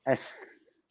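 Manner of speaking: a breathy unvoiced hiss as a joke snake; mock snake hiss. Host doing a joke snake impression, a soft hiss. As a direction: let out a silly snake sound. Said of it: "My impersonation of a homosexual snake is this".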